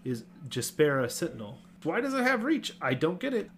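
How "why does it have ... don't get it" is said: baffled. Real, not acted. Baffled at card design.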